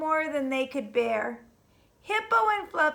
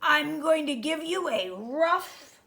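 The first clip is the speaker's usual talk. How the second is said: menacing whisper. Acted. Rhino threatens little porcupine.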